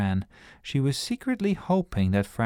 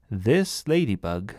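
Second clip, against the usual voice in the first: slow proud announcement; a girl announcing to the grown-ups. Acted. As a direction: present it like big news. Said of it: "she announced".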